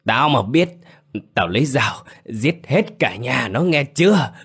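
ghen tuông gào lên, cao và to; dọa giết, giọng hung hăng; giận dữ quát. Acted. (quát tháo giận dữ)

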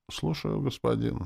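a lightly voiced ragged zombie answer; mumbled servile zombie reply; ragged zombie chorus. A narrator's reading. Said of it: "нестройно ответили зомби".

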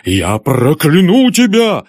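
loud, slow menacing curse; raging father cursing; furious threat. Acted. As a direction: hurl the curse at her.

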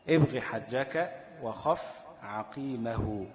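drawn-out recited verse; slow recitation. Acted. Teacher reciting the mnemonic verse to students, slowly. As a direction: lay out each word of the verse slowly.

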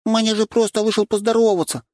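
put-on high, bright little-girl voice defending her rooster; childlike redhead girl. A narrator's reading. Young redhead girl protecting her rooster, high girlish voice. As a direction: play a tiny girl pleading for her pet.

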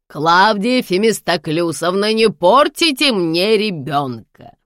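stern scolding. A narrator's reading. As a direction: put her firmly in her place. Grandmother scolds the housekeeper. (строго и громче отчитывает)

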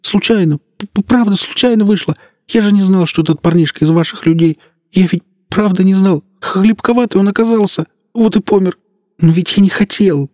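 high, stammering, pleading voice; frightened policeman. Acted. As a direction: beg for mercy, stuttering with fear.

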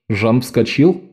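ordinary delivery

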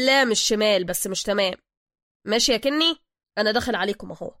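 lightly voiced loud phone chat; driver on the phone. Driver arranges a job with an accomplice by phone, loud and brisk. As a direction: talk up into a mobile.

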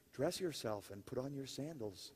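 soft, low, gentle voice of an angel; tender angel. Retold or imitated. Angel gently telling groggy Peter to dress, tender and soft. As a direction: coax him gently like waking a sleepy child. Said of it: "I love this, it's so tender".

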